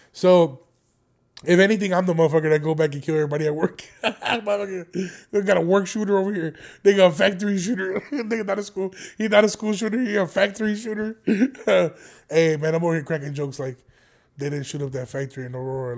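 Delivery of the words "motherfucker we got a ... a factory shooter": words broken up by laughter; laughing joke. Real, not acted. Host riffing on his workplace, laughing. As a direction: crack up at your own dark joke. Cracking up at own dark joke.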